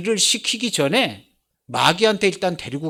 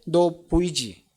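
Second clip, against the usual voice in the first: God's voice; 3 dB louder than usual. Retold or imitated. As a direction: lightly voice God sending someone out to work. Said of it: "하나님 나라가 보이는 사람한테".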